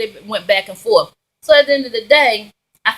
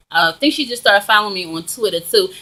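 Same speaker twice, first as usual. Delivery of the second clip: words round a piece of gum; chewing while talking. Real, not acted. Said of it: "I'm sorry, I'm chewing gum".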